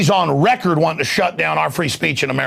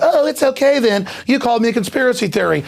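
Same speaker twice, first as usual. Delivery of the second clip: high mock gullible old lady; 7 semitones higher than usual. Old lady mockingly accepting the robber's excuse. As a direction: pipe up like a fooled old lady. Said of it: "she's like".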